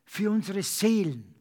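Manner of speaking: earnest praying voice; fervent prayer. Acted. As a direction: pray aloud for the church. Congregational prayer.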